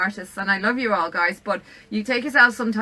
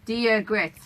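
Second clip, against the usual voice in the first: Irish accent. Shown as a demonstration. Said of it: "I'll teach you some. You should say".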